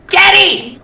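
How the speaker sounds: high-pitched call to someone in back. Acted. Shopkeeper calling into the back for hops, calling out. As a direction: holler the name toward the back room.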